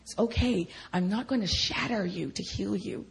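tender, patient reassurance; kindly, unhurried comfort; gentle and loving. Retold or imitated. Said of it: "just so gentle and loving".

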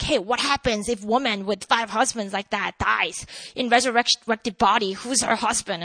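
low, murky demon-like voice. Retold or imitated. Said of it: "I sound like a demon".

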